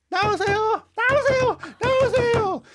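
high, loud, repeated yell at the door; imitated shouting. Old neighbor shouting for the foreigner to come out, in a high loud yell. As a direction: bellow it like an angry grandmother banging on the gate. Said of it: "she's telling me to come out".

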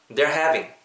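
"They're having" linked, with a true V; repeat-after-me model. Shown as a demonstration. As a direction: model "They're having" as one chunk for copying. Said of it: "한 번 더".

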